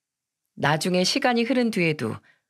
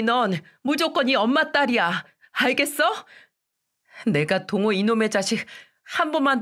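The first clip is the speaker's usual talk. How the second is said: stern, higher scolding turning tender; scolding mother; 4 semitones higher than usual. Retold or imitated. Mother scolding daughter for saying big mother, stern. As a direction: scold her, then reassure her. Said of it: "예빈이에게도 똑같이 혼을 냈습니다".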